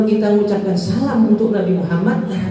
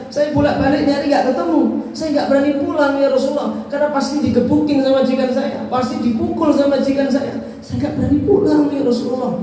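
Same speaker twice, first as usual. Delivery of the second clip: crying slave's plea; 7 semitones higher than usual. Acted. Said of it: "Nangis itu budak itu".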